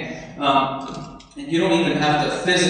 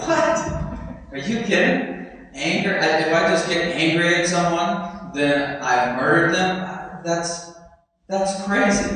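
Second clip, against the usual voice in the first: higher, incredulous protest; imitating a shocked crowd, pitch jumping up; mock disbelief; 4 semitones higher than usual. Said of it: "the people were like".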